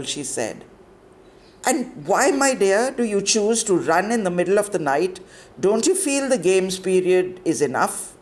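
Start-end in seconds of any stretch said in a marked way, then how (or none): 1.7-8.2 stern warden. Acted. Warden questioning pupil.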